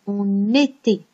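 "on était" linked with an n sound; liaison. Shown as a demonstration. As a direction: join "on" to "était" through the n. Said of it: "on fait la liaison". (« on était » avec la liaison en n)

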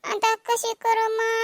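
a touch of fake whining; mild put-on sob; whimpering plea. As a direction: start to whine, not yet wailing. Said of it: "रडून जिरवा लागली".

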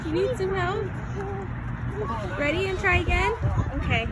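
high, loud cheering parent voice; encouraging mom. Real, not acted. Mom coaching daughter climbing at park.

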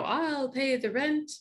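slow, heroic rescuer voice; melodrama hero. Acted. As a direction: declare it like a gallant hero. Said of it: "And the hero".

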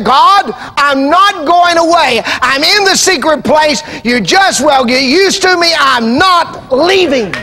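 high, slow and stubborn plea to God; a believer telling God they will not leave, stubbornly; insistent prayer. Acted. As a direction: plant your feet and refuse to leave.

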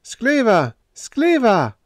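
high, hollow ghostly wail; piteous hollow cry. A narrator's reading. Vanishing phantom calling piteously, hollow wail. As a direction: call out pitifully like a phantom. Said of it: "piteous, hollow voice".

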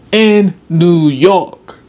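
a hint of the street vendor's slow call; lightly echoing the bridge salesman's pitch. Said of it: "this guy was doing a weird accent".

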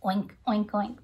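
short pig oinks. Shown as a demonstration. Teacher shows what a pig says, oinking. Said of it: "What sound does a pig make".

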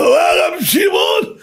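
high, drawn-out cry of delight; awed exclamation. Retold or imitated. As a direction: exclaim it high and slow, overawed by the guest. Householder reacts to famous guest's name. (קריאת התפעלות גבוהה ומתמשכת)

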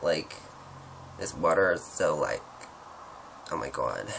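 low-pitched American drawl; mock American pop-star accent; attempted American celebrity talk, dropping low; a singer's accent. Shown as a demonstration. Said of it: "That's my pop-star accent".

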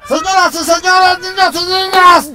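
anuncio de presentador de circo, agudo; ringmaster. Pretend. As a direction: presenta como maestro de ceremonias. (voz de maestro de pista)

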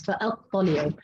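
فأطلعوا with clear hamza, ending on u; final u on ayn. Shown as a demonstration. Teacher repeating the others' reading, final u. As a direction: round the end of فأطلعوا to u. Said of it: "قرأوها بالرفع".

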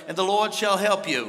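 mock-formal attempt at Australian; proper Australian accent. Preacher imitating God heard by Australians, proper mock-Australian accent. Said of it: "if you're real proper".

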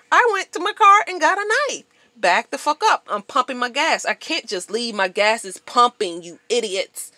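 venting about the stranger, loud and high; heated retelling. Retold or imitated. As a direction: yell it out reliving the fight. Reliving the knife confrontation.

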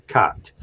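"cot" with an open ah vowel; short "cot", K sound and ah; Esperanto pronunciation. Shown as a demonstration. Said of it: "and then you pronounce it".

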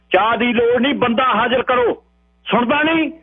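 high, sharp police order; harsh command. A narrator's reading. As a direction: bark it down at the old man. (ਉੱਚੀ ਤੇ ਕੜਕਵੀਂ ਹੁਕਮੀ ਆਵਾਜ਼)

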